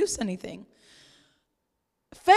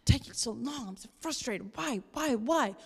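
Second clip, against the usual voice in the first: mock frustrated sigh; 4 semitones lower, 9 dB quieter than usual. Acting out frustrated person.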